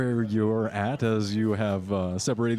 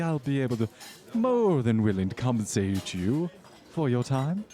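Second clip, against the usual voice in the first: socialite voice; 3 semitones higher than usual. Acted.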